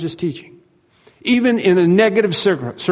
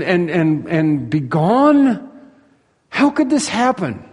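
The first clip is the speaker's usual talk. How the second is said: higher-pitched, drawn-out incredulous questions; disbelieving disciples; 5 semitones higher than usual. Acted. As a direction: question it as a stunned, disbelieving follower. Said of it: "you can imagine the disciples".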